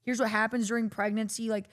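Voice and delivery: high, chirpy, laughing teacher voice; hammed-up mocking of a Texas sex ed teacher. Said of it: "our sex ed in Texas was just".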